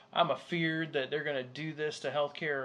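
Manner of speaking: mock Southern worrier; Southern accent. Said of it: "what that accent was".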